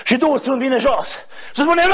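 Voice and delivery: ordinary delivery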